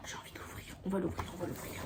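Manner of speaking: excited whisper, no voice. Real, not acted. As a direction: breathe it out in a whisper. Whispers while unwrapping.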